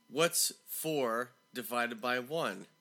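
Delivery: teacher spacing out the question slowly; measured, slow quiz question; slow, deliberate question. Retold or imitated. Teacher quizzing a seventh-grader, slow and deliberate.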